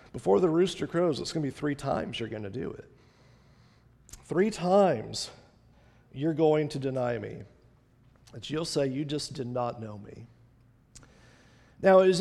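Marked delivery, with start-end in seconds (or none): 0.1-10.3 low, soft, sober prediction; Jesus, subdued. Acted. Jesus foretelling Peter's denial, quiet and sober. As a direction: answer quietly, letting it sink lower and softer. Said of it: "Jesus comes back at him and just says".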